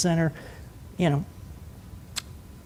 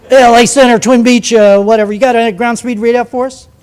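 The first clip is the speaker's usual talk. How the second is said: Bonanza pilot on radio; 2 semitones higher, 6 dB louder than usual. Retold or imitated. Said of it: "a twin Bonanza came up".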